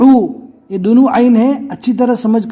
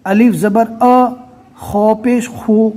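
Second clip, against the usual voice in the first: slow spelling out; much slower than usual. Retold or imitated. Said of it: "ہجے کرنے کا طریقہ ان کا کیسا رہتا ہے".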